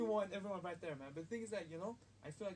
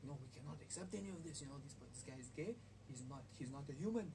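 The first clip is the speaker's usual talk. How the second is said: put-on Arab accent; 4 dB quieter than usual. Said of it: "the Arab accent doesn't mean".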